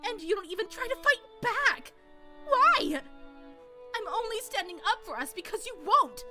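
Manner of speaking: upset wife pleading. Acted. Natsuhi confronting husband.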